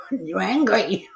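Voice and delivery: slow, laughing "You angry"; teasing a grumpy streamer, laughing and slow; laughing mock taunt. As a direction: drag out "angry" through a laugh. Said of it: "I was like".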